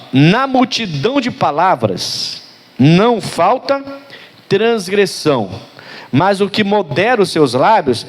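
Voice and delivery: slow, measured reading of the verse; scripture reading. Acted. Preacher reads Proverbs to the congregation, slow and measured. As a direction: read the proverb out, weighing every word.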